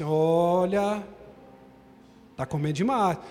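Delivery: leve imitação da esposa reclamando, em tom mais grave. Retold or imitated. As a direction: imite a esposa de leve na mesa. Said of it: "a esposa fala assim". (esposa reclamando do marido à mesa, de leve)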